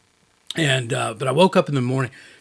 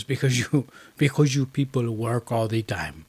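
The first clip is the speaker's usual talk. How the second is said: lightly imitated French accent, fairly soft; poor French accent; 2 semitones lower, 3 dB quieter than usual. Retelling the French fixer's answer at dinner, poor French accent. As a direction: attempt a mild French accent. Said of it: "That was a poor French accent".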